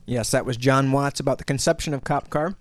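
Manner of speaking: talking with a mouth full of candy; words round a mouthful of Reese's. Real, not acted. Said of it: "talking with my mouth full".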